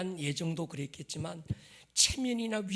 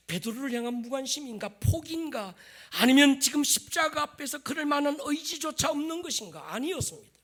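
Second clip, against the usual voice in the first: impassioned preaching; 8 semitones higher, 8 dB louder than usual. Acted. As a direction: press the question home, loud. Preaches at full force.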